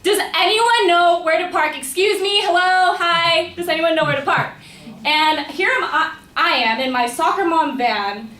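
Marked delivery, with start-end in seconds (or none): 0.0-4.5 high, loud yelling to strangers; imitated screaming. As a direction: call out frantically as if from a car window.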